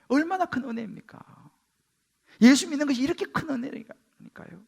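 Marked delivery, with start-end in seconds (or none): none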